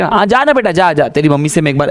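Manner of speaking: lightly imitating a sarcastic mother; sarcastic mom. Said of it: "माँ से बड़ी sarcastic औरत". (व्यंग्य भरी माँ का ताना)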